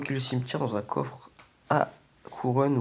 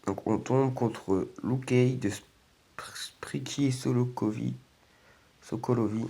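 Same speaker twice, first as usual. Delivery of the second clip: whispered; slower than usual. Real, not acted. Reading opponent names under breath.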